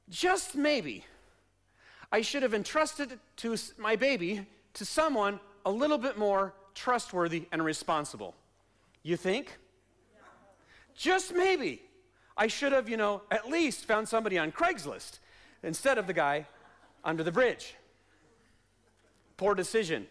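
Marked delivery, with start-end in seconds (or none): 0.1-8.3 a light hint of sheepish hindsight, said to yourself; dawning regret, mildly played; mock regretful thought. Parent's regretful thought, imagined scene. 10.9-17.7 overplayed parent kicking themselves; exaggerated mock regret. Same thought redone, more exaggerated.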